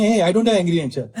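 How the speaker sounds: mildly hammed-up indignation; angry denial. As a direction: act out a husband testily denying his temper. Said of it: "He's angry and he's saying".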